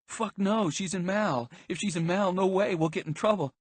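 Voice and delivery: high, agitated, hurried protest; panicked refusal. A narrator's reading. Bystanders refusing to call an ambulance, panicked.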